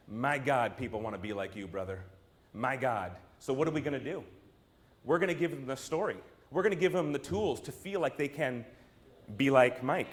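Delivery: low, soft voice of an awed adviser; hushed awe. Acted. Advisers marvelling privately to Michael Jordan, hushed awe. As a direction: drop low and confide it to the star.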